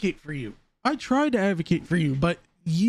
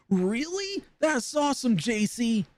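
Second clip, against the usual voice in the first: much higher, mock-eager one-liner; fake excited extra; 6 semitones higher than usual. Mocking a movie extra's one line. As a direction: ham it up like a bit-part extra. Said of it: "an extra that only says one line".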